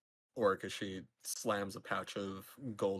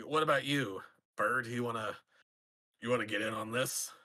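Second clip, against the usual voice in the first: slightly raised voice, calling over; mild acted shout; faster than usual. Orc leaning over to invite the bird into dice, mild shout. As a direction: call out, only half shouting. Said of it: "lean over and shout at you".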